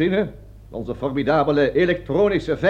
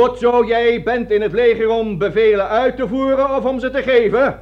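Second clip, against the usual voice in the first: loud, higher barking quiz to the corporal; loud drill question; 5 semitones higher, 6 dB louder than usual. Acted. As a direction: test the corporal like a drill instructor. (luid en scherp overhorend)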